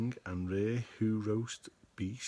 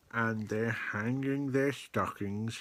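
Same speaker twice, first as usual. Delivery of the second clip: mild snarl. Acted. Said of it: "he snarled with a sneer".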